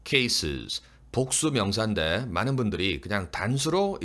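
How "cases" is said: "cases" with the final plural -es clearly sounded; plural ending sounded. Shown as a demonstration. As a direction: keep both syllables of "cases". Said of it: "복수를 살려주세요".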